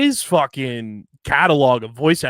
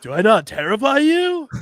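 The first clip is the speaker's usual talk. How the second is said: higher villain alien voice; 9 semitones higher, 4 dB louder than usual. Pretend. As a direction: menace like a hammy space invader. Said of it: "Take me to your leader" type of voice".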